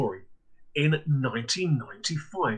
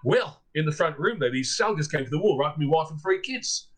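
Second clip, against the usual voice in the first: put-on Australian accent. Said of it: "from the same Australian".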